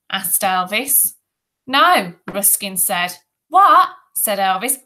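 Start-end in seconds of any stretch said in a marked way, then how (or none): 1.7-2.1 high, emphatic little no; squeaky boy's refusal. A narrator's reading. Timid boy's refusal, voiced in story. 3.5-3.9 high, loud questioning what; bully's mock-deaf what. A narrator's reading. Bully claims he cannot hear.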